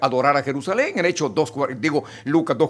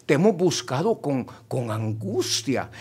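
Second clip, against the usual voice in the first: calm gentle mother; 3 semitones lower, 4 dB quieter than usual. Retold or imitated. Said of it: "no le grita, no lo insulta".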